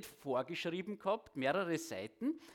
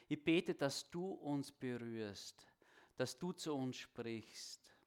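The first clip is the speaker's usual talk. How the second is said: prayer. Acted. Closing prayer.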